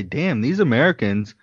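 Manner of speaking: high, loud mock Australian exasperation. Imagining Australian listeners, loud mock Australian accent. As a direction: lampoon Australian listeners groaning at Americans. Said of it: "They might say".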